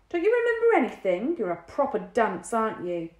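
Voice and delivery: high, loud exasperated scolding; high, loud scolding of a dim sister. A narrator's reading. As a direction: scold her, fed up. Lloyd berating Dinah.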